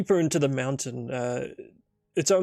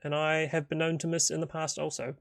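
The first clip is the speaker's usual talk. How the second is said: tactful adventurer; 3 semitones higher than usual. Acted. Adventurer excusing the dwarf's missed blow, lightly voiced and tactful. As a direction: tread carefully, softening toward the end. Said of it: "He's like".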